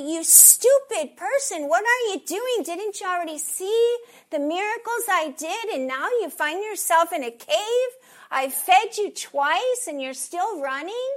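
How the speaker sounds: loud, high, berating tirade; acted scolding yell; angry yelling. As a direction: bawl someone out in disbelief. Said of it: "He didn't yell at Elijah".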